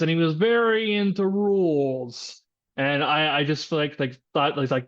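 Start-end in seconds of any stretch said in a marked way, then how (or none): 0.0-2.4 nasal, higher voice of a rule-loving manager; nasally manager voice. Retold or imitated. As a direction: whine it through the nose like a stickler boss. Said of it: "this nasally voice like this".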